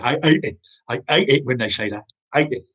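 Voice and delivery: imitated Cockney with dropped H in "hate"; Cockney accent. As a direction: mimic an older Cockney shopkeeper's grumble. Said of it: "In his Cockney accent".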